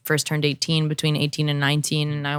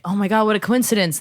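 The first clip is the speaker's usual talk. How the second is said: amazed; 5 semitones higher, 3 dB louder, faster than usual. Retold or imitated. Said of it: "I'm like".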